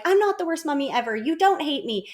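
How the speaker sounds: mock defensive retort. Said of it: "engaging in that power struggle of like".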